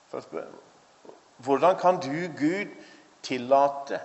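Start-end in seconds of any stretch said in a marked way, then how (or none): 1.4-4.0 a mildly raised, accusing question to God; retold anger at God. Man furious at God for allowing suffering, mild indignant rise. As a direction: press the word kan, half-acting his outrage. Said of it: "blir Kamal så opprørt og så sint".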